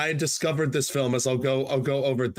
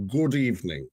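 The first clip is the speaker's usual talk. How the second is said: Alfred Hitchcock; 3 semitones lower than usual. Acted. Host recites a favorite quote to co-host, Hitchcock impression. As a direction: intone it formally with deliberate pauses, sinking at phrase ends. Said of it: "I might butcher my impression".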